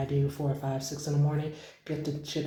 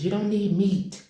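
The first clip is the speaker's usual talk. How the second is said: plain; 5 semitones higher, 4 dB louder than usual. Shown as a demonstration. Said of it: "repeated line".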